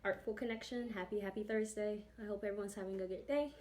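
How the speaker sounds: breathless from running upstairs; a bit winded, catching breath. Real, not acted. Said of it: "I'm out of breath".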